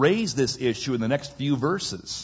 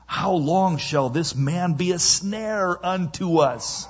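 drawn-out, higher-pitched plea to a ruler; slow, mildly exasperated appeal; 5 semitones higher than usual. Acted. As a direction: plead slowly, pitch raised. Acting out Pharaoh's servants' plea.

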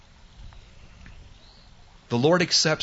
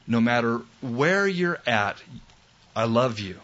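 tender reassurance. Retold or imitated. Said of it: "my Lord still looks at me and says".

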